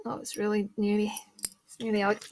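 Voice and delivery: hoarse, sore-throat voice; speaking through a sore, infected throat; throat infection voice. Real, not acted. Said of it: "Excuse the voice, I've had a throat infection".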